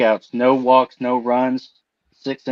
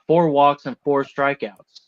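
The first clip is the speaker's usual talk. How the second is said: a touch of relish in the tally; mildly excited. Real, not acted. Host finishes Clay Holmes's pitching line, mildly excited. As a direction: read the numbers with understated excitement. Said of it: "You sound excited when you're saying that".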